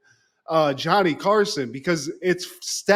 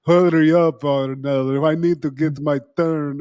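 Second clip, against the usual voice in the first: 1 loud demand; 6 dB louder than usual. Retold or imitated. First take of same line.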